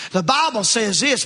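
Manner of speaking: mock self-righteous. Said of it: "are you speaking that in love?".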